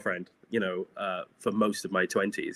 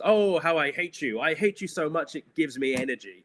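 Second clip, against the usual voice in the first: Dylan Moran; 4 semitones higher than usual. Retold or imitated. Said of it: "that Dylan Moran joke where he goes".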